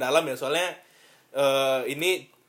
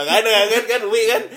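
hiccuping through laughter; with hiccups; 7 semitones higher, 7 dB louder than usual. Real, not acted. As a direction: hiccups breaking the words. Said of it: "aduh, eh".

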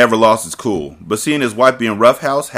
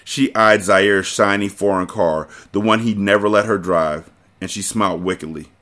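usual speaking voice

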